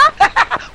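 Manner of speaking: high, short tickled laugh; coy giggle. Acted. Suitor amused by his sweetheart's scolding, high giggle.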